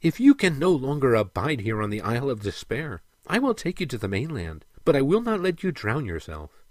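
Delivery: lightly voiced mermaid, earnest; gently insistent female character; resolute mermaid.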